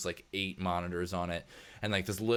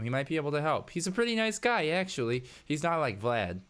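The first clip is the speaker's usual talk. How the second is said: lightly raised, chatty character voice; helpful Sal, chatty; 4 semitones higher than usual. Acted. Worker leading you to her boss, lightly voiced chatty character. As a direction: reassure the newcomer while leading the way.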